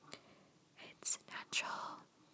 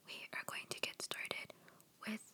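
cracking voice under the whisper. Real, not acted. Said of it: "my voice keeps cracking".

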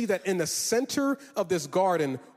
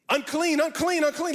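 mock leper cry; 8 semitones higher than usual. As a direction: call it out like a leper's warning, hammed up. Mock leper cry after coughing.

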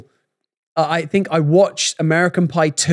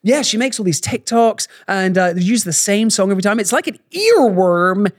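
higher-pitched imitation, Canadian on the slipped word; mock Canadian slip; 4 semitones higher than usual. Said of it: "You, you were literally explaining that".

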